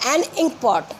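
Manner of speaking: ink said with a clear ee vowel at the start; ink with ee sound. Shown as a demonstration. Teacher to pupils, ink pot with a clear ee. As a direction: stretch the ई of ink. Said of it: "ई की आवाज़ आ रही है".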